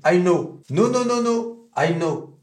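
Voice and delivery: know and no with the O sliding toward OU; American O glide. Shown as a demonstration. Teacher drilling the gliding O of no. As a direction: stretch the O toward OU without reaching it. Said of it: "C'est un O évolutif".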